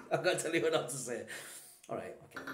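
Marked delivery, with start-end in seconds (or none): 0.0-1.2 quick words through a laugh; amused, hurried and breaking into laughter. Real, not acted. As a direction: tease back while chuckling. Laughing while teasing back.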